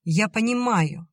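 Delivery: heated exclamation of understanding; exclaiming. A narrator's reading. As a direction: hammer it home in exasperation. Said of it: "воскликнула Вера".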